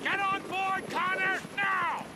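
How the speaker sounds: forceful command over engine noise; shouted order. Acted. Commander ordering Connor onto the chopper, shouted order. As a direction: order Connor aboard at once.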